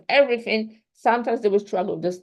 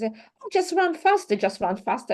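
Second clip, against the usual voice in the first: mock urging voice; 4 semitones higher than usual. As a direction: imitate someone nagging a runner at the finish. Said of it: "And someone says".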